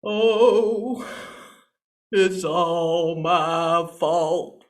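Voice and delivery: slow, drawn-out theatrical lament; hammed-up sobbing self-blame; mock wailing. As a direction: wring every word out in mock grief. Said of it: "wailing and crying louder than ever".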